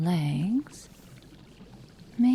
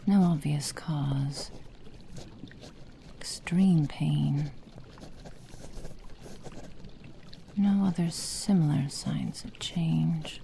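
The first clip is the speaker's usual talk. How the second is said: slow murmured notes; 7 dB quieter, slower than usual. Acted. Dictating clinical observations.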